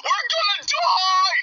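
slow, crying shout of doom; doomed cup wailing; panicked wail. Acted. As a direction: wail it like the end has come. Cups panic as town burns.

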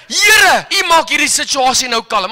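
retold prayer shouted over the crowd; bold prayer. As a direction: call out to God with authority. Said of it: "Uit ons monde vloei die woorde".

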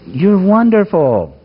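said like you mean it. Shown as a demonstration. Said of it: "I'll say it like you mean it".

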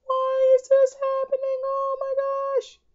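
very high, breathless whispered whine; squeaky whisper. Real, not acted. Gamer mourns lost cells in a high whisper. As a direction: whisper the despair in a tiny squeak. Whining after losing cells.

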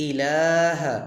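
ইলাহা with long "laa" and short "ha"; no stretch on final "ha". Shown as a demonstration. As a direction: hold the middle of ইলাহা, cut the last syllable short. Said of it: "হাতে টান হবে না".

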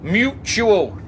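put-on taunting the dead old woman below at full voice; mocking shout.

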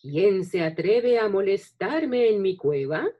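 loud, growled dragon's challenge; growling dragon guarding treasure. Acted. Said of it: "gruñó el dragón".

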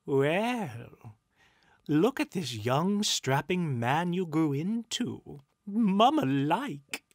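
high, loud, savouring spirit; slow, showy appreciation; admiring ghost. A narrator's reading.

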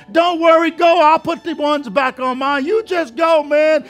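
high, loud, shouting encouragement; excited urging. Retold or imitated. Partner urging Craig toward Oakwood, high excited shouts. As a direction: push him out the door with joy.

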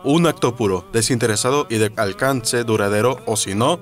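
seething shrieking spirit. Acted. Spirit threatening.

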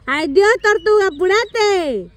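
apurándola en broma, despacio; burla cariñosa. Real, not acted. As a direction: bromea que corre como tortuga. Anima a una corredora lenta. (burla cariñosa)

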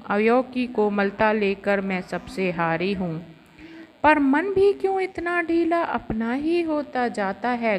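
measured verse recital, each couplet lifted then falling; poem recitation. Acted. Reciting Kamayani's verses for Women's Day, poem recitation. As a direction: recite it line by line with a falling cadence.

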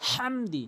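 "হামদি" with h from the middle of the throat. Shown as a demonstration. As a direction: breathe out a strong throat h to open "হামদি". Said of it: "হাটি হলকের মাঝখান থেকে".

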